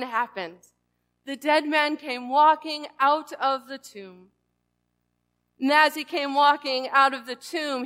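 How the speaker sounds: solemn, measured Bible reading; scripture reading. A narrator's reading. Pastor reads the raising of Lazarus to the congregation, solemn scripture reading. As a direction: read the gospel reverently, letting phrases settle.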